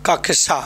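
"कक्षा" as kak-sha with a falling end; crisp k-sh cluster in "कक्षा"; correct pronunciation. Shown as a demonstration. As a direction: sound the k before sh in "कक्षा". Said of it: "क्या होगा".

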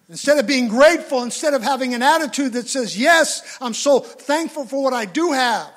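loud, high preaching push; preacher urging gratitude at full force. Acted. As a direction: proclaim gratefulness with force. Preaching loudly.

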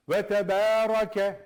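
Ve tebarake with a heavy ra, slow and loud; thick ra. Shown as a demonstration. Teacher showing the thick ra in tebarake. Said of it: "Ra'yı kalın okuyacaksın".

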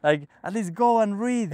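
high-pitched mock scolding, volume held back; retold shouting. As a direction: imitate a guru telling off a disciple. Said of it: "Guruji starts shouting at him".

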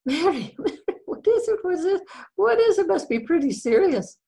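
high, urgent acted questioning; anxious pestering. Husband begging his wife for the doctor's news, anxious. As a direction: press for an answer in a high, fretful voice.

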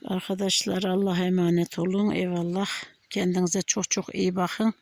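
hoarse, husky early-morning voice. Real, not acted. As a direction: speak through a hoarse, worn throat. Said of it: "Sabah biraz sesim kı-, şey, boğuk, kısık".

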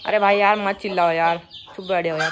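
loud exasperated shushing; hushing the hen. Real, not acted. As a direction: tell the noisy hen to shut up. Scolding the screaming hen. (चिल्लाती मुर्गी को ज़ोर से डाँटकर चुप कराना)

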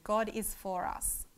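slow demo line. Shown as a demonstration. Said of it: "I want you to repeat it after me".

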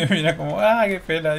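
amused at the loss; high, laughing mock pity. Real, not acted. Laughs at characters dying.

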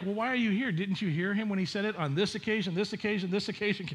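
a hint of an exasperated angel asking why; chiding angel. Angel scolding the confused women, mildly incredulous.

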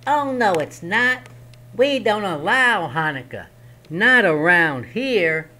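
high, loud bossy goblin forbidding Hanukkah; small goblin laying down the law; first goblin. Acted. Goblin blocking Herschel's candles, high and bossy.

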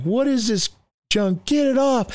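high-pitched imitation of annoyed friends; mock disgusted complaint. Friends objecting to Jesus on the radio, mock annoyed. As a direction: demand it in a put-on high voice.

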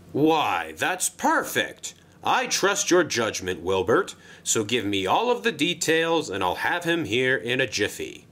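a jolly controller pitching a job; Sir Topham Hatt voice. Acted. Sir Topham Hatt replies to Wilbert.

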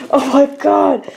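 thrilled squeal of a line; excited. Real, not acted. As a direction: gush over it. Reacting to CD haul.

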